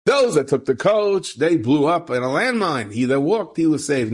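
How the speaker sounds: high-pitched, hammed-up moral-of-the-story telling; exaggerated storybook triumph; mock movie drama. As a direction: play up the film ending with swooping pitch. Parody of movie version of ending.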